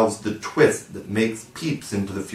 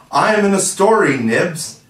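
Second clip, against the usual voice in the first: much higher, louder gleeful cheer; even more delighted; 9 semitones higher, 5 dB louder than usual. Acted. Toodles boasting to Nibs: gleeful cheer. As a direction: crow it to Nibs.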